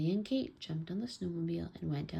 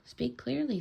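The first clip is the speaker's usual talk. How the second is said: calling down; 6 semitones higher than usual. A narrator's reading. Child calls to buried father.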